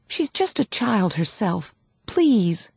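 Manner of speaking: slow, restrained entreaty; pleading. A narrator's reading. Woman begging officer for the child, pleading. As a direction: appeal to his sympathy.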